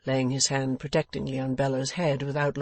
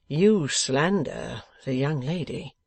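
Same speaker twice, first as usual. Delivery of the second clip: slow, measured rebuke; grave protest; slower than usual. Acted. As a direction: protest slowly and firmly.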